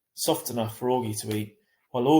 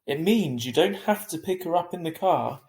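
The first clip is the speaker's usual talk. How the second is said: stern; 6 semitones higher, 5 dB louder than usual. A narrator's reading. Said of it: "he said sternly".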